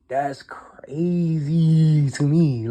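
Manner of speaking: very slow whisper, drawn out; slow stunned whisper. Real, not acted. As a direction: let it hang in a hushed whisper. Whispered disbelief again.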